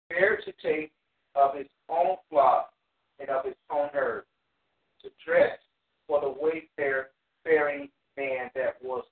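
measured, emphatic Bible reading; scripture reading. Acted. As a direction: read the verse aloud in deliberate phrases. Reads scripture aloud to the class.

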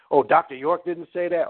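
lightly mocking, doubtful imitation; mock disbelief. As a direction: mimic a follower taken aback. Mimics disbelieving followers.

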